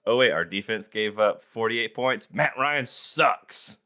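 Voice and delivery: whiny fan, slow on Matt Ryan sucks; mock an outraged Falcons fan. Mocking the typical Falcons fan response, whiny and slow. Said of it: "typical Atlanta Falcons response".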